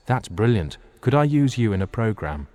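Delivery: eager party-guest enthusiasm; gushing enthusiasm. Acted. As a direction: seize on a brilliant idea. Party guest gushes over cardboard drawing.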